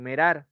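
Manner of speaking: "merar" with e for i; Quechua learner mispronunciation. Shown as a demonstration. Teacher showing Quechua speakers' vowel shift. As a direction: say "merar" for mirar. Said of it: "dicen merar".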